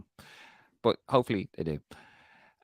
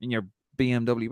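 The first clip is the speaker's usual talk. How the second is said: mock Irish accent; 6 semitones higher than usual. Imagined reply to Declan Rice.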